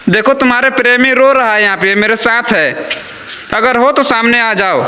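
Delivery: pleading with the ghost to show herself; calling out. Real, not acted.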